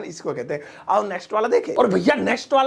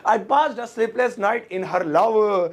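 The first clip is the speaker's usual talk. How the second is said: very slow, word-by-word English sentence; slow example sentence; much slower than usual. Shown as a demonstration. Teacher slowly models the extended example. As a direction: stretch every word for learners. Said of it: "आप जोड़ भी दो इसमें".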